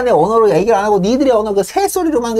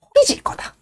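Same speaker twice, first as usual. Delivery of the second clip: mock ominous whisper; 3 dB quieter than usual. Ominous prediction to birds.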